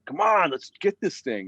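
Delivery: a hint of pissed-off impatience; mock annoyed. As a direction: replay your own frustration, half-playful. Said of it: "I was kinda a little bit pissed off".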